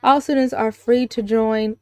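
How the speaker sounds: lightly voiced teacher addressing the class; a hint of formal school announcer; teacher's announcement. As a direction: announce it to a room of students.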